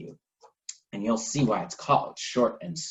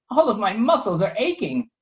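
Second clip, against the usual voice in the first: high, whiny lady's voice; Lady Pancake complaining; 9 semitones higher, 4 dB louder than usual. Acted. Lady Pancake complains to Toast, high and whiny. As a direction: moan it in a high, fussy voice. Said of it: "Pancake said".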